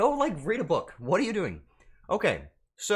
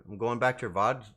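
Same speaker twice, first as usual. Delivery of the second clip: normal talking voice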